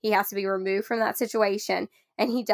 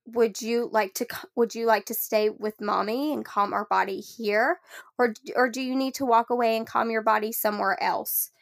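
calm choice offer. Shown as a demonstration. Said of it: "I would give him the option".

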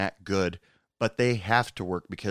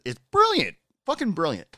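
gushing praise; 8 semitones higher, 3 dB louder than usual. Real, not acted. Praising a funny quarantini post.

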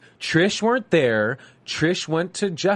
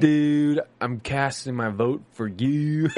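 put-on California surfer accent; slower than usual. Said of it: "the worst Californian accent ever".

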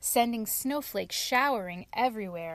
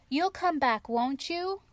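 begging; 6 semitones higher than usual. Acted. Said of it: "begged Snow White".

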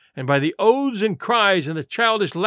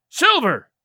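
high, louder shout of a name; cry; 7 semitones higher, 4 dB louder than usual. Acted. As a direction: call him out together. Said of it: "they cried".

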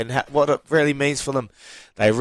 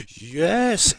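gasp, then a higher reliving "yes!"; retold relief; 4 semitones higher than usual. Player seeing the penalty kick miss, gasped relieved yes. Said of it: "and I was like".

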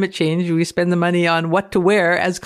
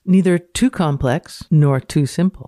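dramatic reading. Acted. Reads paper's phrase.

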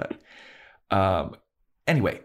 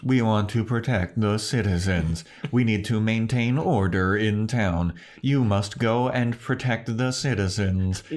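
slow, even computer voice; robot voice; 3 semitones higher than usual. Retold or imitated. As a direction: read it like a mainframe talking. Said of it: "got that stupid ass robot voice".

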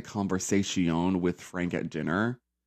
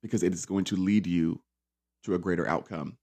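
mom's advice; 5 semitones lower, 5 dB quieter than usual. Retold or imitated. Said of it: "my mom always used to tell me".

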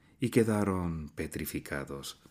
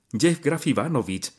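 usual speaking voice

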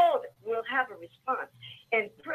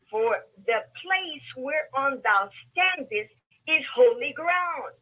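scripture reading; slower than usual. Acted.

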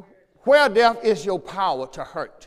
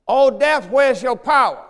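louder ringing scripture cry; preached proclamation; 3 semitones higher, 5 dB louder, slower than usual. Acted. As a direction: call out to death in triumph.

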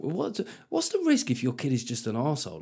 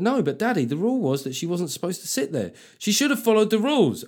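mildly raised, lightly voiced five-year-old; little daughter voice; 6 semitones higher than usual. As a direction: play the earnest little girl citing the rules.

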